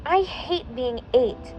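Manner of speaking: pouting. Acted. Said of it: "Jane pouted".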